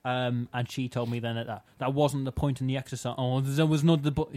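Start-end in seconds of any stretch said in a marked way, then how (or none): 3.4-4.4 teacher quoted with a put-on French accent. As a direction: slip into a mock French accent. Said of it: "she wasn't French".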